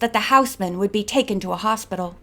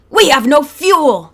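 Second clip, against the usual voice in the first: higher, much louder alarm; cried out; 5 semitones higher, 9 dB louder than usual. A narrator's reading. Thorne crying out to the gang in alarm. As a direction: yell the bad news out. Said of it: "he cried".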